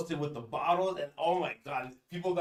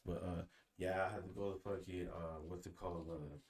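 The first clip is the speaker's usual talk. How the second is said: leaning in to whisper; 8 semitones lower, 12 dB quieter than usual. Real, not acted. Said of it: "keep that shit low over there".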